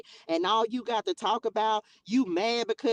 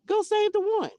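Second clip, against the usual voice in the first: high, far-off voice of God; mock heavenly voice of God; high divine command; 11 semitones higher than usual. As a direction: sing out the Lord's command. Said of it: "what he would be telling you".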